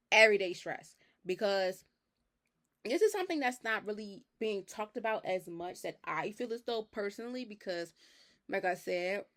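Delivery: talking while chewing gum. Real, not acted. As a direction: speak around a wad of gum. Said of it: "I'm chewing gum".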